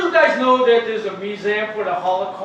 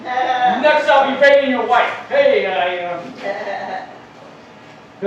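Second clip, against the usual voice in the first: louder, taunting chief voice; gloating casino chief; 3 dB louder than usual. Retold or imitated. Casino chief mocking the gambler who lost, loud gloating. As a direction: crow over the beaten white man. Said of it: "Indian chief in the casino office going".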